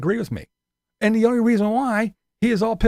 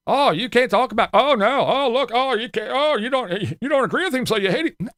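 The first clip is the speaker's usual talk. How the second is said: mocking accuser; 3 semitones higher than usual. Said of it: "if I say anything".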